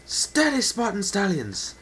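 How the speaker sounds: loud, high steadying call; barked order to the ranks; commanding shout. Acted. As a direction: hold the line with your voice. Captain steadying the line.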